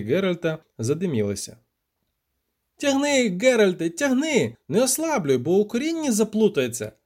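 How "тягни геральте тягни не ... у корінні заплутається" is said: high-pitched excited cries; keyed-up, high and pressing; frantic urging. A narrator's reading. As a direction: urge your partner on in a panic. Poet urging during struggle with catfish.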